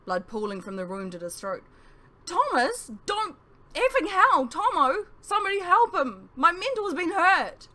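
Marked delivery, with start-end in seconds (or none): 2.3-7.7 very loud, high, slow yell, voice cracking. Acted. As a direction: scream for help, voice breaking. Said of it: "Talgith yelled, his voice cracking".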